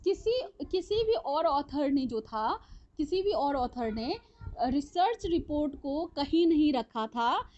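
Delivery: slow, measured dictation for note-takers. Real, not acted. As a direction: dictate it slowly, phrase by phrase. Teacher dictating notes for writing. (धीमी गति से लिखवाते हुए)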